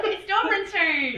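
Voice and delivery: high slow laughing deflection. Real, not acted. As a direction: giggle it out slowly.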